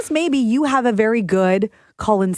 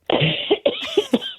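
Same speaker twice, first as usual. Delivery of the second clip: fake cough. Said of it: "best call in sick voice".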